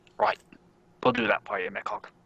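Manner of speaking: put-on very high-pitched, broken, orc-like accent. Voicing an orc character replying to mechawk, broken orky accent. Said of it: "switch over to like his like broken orky accent".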